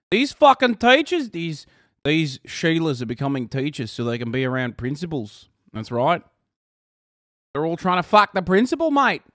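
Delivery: light Australian accent, mocking; a hint of Australian accent to mock them; lightly done Aussie accent. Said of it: "pulling the sneaky Aussie accent".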